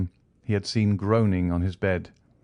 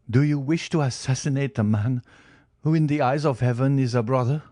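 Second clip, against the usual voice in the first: pleading prisoner; 5 semitones higher than usual. Acted. Starving prisoner begs on knees.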